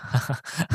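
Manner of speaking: short, soft put-on chuckle; imitated laugh. Steve reminded of the mushrooms, imitated sheepish laugh. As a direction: laugh it off lightly, in character. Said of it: "And he's like".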